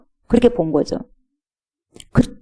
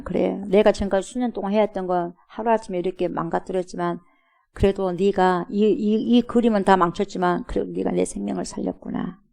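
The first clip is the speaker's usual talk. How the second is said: grateful softening; 6 dB quieter than usual. Acted. Master softly thanks servant.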